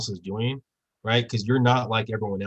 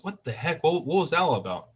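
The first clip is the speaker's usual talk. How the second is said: put-on higher, rattled kid blurting it out; shocked outburst; 5 semitones higher than usual. Kid shocked after being held underwater by the mentor. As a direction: sound shaken, just let up for air.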